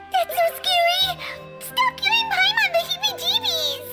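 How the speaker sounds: high-pitched squeal of fright; frightened protest. Acted. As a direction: scold them in a high, scared squeak. Scared, scolding companions for the scare.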